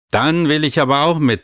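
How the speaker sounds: put-on a child insisting not to be left out; insistent. A narrator's reading. Maral insists on coming.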